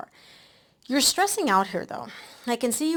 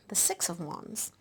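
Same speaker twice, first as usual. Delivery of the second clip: whisper; 7 dB quieter, slower than usual. Real, not acted. Whispered card reveal mid reading.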